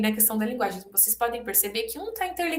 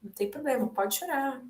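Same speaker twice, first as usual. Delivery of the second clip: soft reassurance; 6 dB quieter than usual. Shown as a demonstration. Nurse comforting a crying patient, soft, gentle. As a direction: let them know crying is fine, softly. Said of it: "Dizendo ali".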